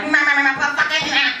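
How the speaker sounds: high quacks with a curse mixed in; quacking tic. Retold or imitated. Comic imitating brother caught on the floor, quacking tic. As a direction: quack frantically with swearing thrown in. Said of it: "quack, quack sounds".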